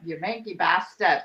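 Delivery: Texan trying out a Scottish "manky bastard", slowly; attempted Scottish accent. Shown as a demonstration. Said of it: "I wanna hear Sam calling you a manky bastard".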